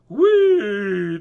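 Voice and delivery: loud, high squeal of play; gleeful whee. Acted. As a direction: whoop like a leaping dolphin. Dolphin leaping and spinning.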